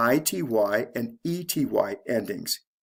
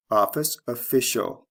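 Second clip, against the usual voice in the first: OFfice, then ofFIcial; shifting stress. Shown as a demonstration. Teacher repeating the example, stress moving to second syllable in official. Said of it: "The stress changes from first to second syllable".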